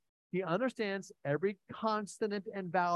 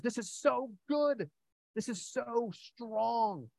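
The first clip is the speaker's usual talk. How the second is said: slow emphasis; 6 semitones higher, much slower than usual. Real, not acted. Preacher savours the Psalm.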